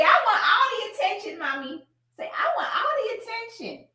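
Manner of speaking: put-on high baby-talk pet voice; whiny-sweet, high-pitched pretend dog; voicing the dog. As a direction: speak for a needy, demanding dog. Speaks for the demanding dog.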